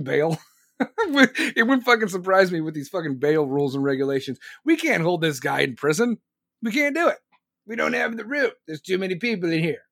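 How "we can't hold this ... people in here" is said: lightly mimicked helpless excuse; mock excuse-making. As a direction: put on a feeble official's protest, pitched up midway. Mimicking officials' excuses about jail.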